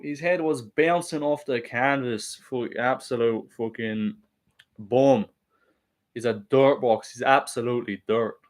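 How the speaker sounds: rough attempt at an Irish fighter's voice, slow at first; lightly put-on Irish fighter impression; Conor McGregor. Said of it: "my Conor impression's kinda mid".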